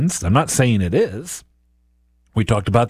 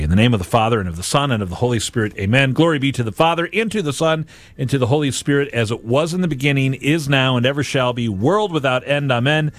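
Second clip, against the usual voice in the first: steady prayer cadence; measured liturgical prayer; closing prayer. Acted. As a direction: lead the listeners in prayer.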